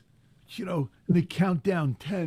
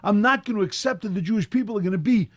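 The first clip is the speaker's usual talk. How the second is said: Rachel refusing, louder and insistent; defiant refusal; 3 dB louder than usual. Acted. Rachel Imenu refusing God's decree, defiant and loud. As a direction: stand your ground, won't accept it. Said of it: "she says".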